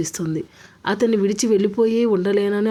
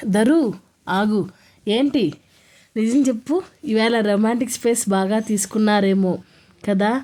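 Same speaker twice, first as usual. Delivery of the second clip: teasing; 3 dB louder than usual. Acted. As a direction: poke fun at her playfully. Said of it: "అల్లరిగా అడిగింది శృతి". (అల్లరిగా ఆటపట్టిస్తూ)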